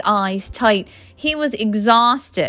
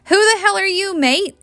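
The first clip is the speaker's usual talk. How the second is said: higher, indignant British challenge; indignant Briton; 11 semitones higher than usual. A narrator's reading. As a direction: challenge a stranger in a British accent. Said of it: "as rage coursed through him".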